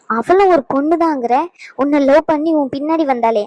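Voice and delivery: a sneering repeat of his words; mocking echo. Sister mocks her brother's plea, scornful echo.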